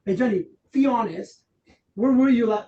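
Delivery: accusing tone. Shown as a demonstration. Trainer demos confronting Jenny, accusing and loud. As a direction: push her like you expect a lie. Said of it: "I'm saying that she's gonna lie".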